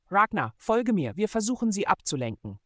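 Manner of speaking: a leader yelling commands on the run; commanding shout. Acted. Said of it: "befahl Nick".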